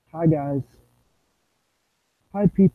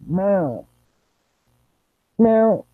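playful meowing like a kitten; cat meows; much slower than usual. Pretend. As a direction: meow over and over like a cat.

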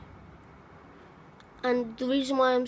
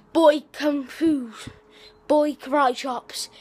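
announcer voice; 3 semitones higher, 5 dB louder, slower than usual. Acted. Announcing video title.

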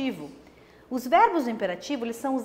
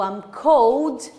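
acted feeling; 7 dB louder than usual. Shown as a demonstration. Acting out feelings vocabulary.

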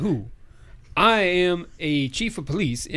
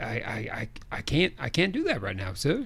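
whispering; 6 semitones lower, 6 dB quieter than usual. Acted. Nervous butler on the phone.

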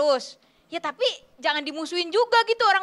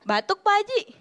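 higher-pitched teasing call; teasing jibe; 4 semitones higher than usual. Retold or imitated. People teasing someone who coughs, mocking jibe. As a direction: poke fun at someone coughing. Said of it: "malah ngeledekin gitu".

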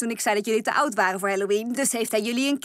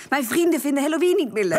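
pleading shout; 5 semitones higher, 3 dB louder, faster than usual. Acted. Pleading to the ghost.

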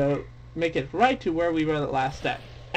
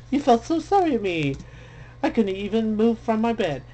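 witch voice; 5 semitones higher than usual. Acted. Reading witch dialogue.

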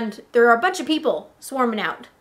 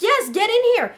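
put-on insistent, raised British-accented order; 8 semitones higher, 5 dB louder than usual. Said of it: "he has a British accent".

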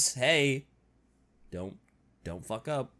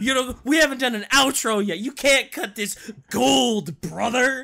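wrestling promo; 4 semitones higher, 5 dB louder than usual. Acted. Wrestler voice continues.

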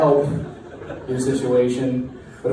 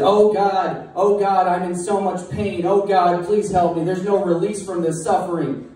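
higher, hammed-up wailing of pain; mock anguish; 5 semitones higher than usual. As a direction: ham up a suffering plea. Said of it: "sign that said".

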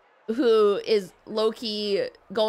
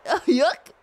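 goofy cartoon guffaw, raised and loud; silly hiccupped catchphrase; 6 semitones higher, 5 dB louder than usual. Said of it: "It's giving Goofy on drugs".

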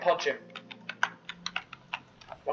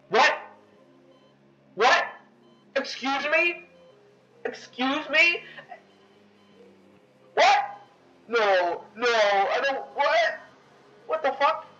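much higher, rising incredulous questions; real disbelief; 8 semitones higher, slower than usual. Real, not acted. Gamer baffled when the game breaks, in rising disbelief. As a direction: squeak out shocked confusion. Game suddenly freezes around him.

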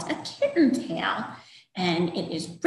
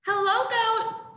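duck voice; 12 semitones higher than usual. Acted. Duck greets goat, high voice.

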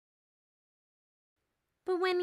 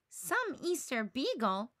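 scoffing. Acted. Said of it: "Lucy scoffs".

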